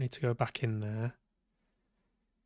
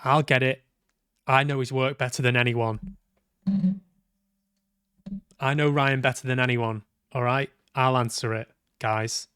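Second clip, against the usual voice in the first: louder, pushy take-charge reading; assertive; 4 dB louder than usual. Acted. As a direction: insist you know him best, stepping up firmly.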